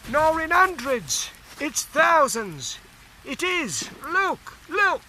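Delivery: high, rising amazed trench talk; cockney soldier agog; excited soldier. Acted. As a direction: point and marvel at the slaughter. Soldier marvels at falling enemy.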